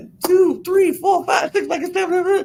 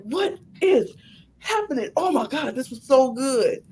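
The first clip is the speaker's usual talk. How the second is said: amazed exclaim; 3 semitones higher, 4 dB quieter than usual. Retold or imitated. Retelling her reaction while watching.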